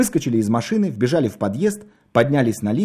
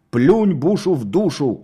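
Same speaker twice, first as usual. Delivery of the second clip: slow, louder, higher yell in an odd put-on voice; a madman yelling his nonsense from the kitchen; 4 semitones higher, 4 dB louder, slower than usual. A narrator's reading. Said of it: "орал Костя". (медленный громкий крик безумца)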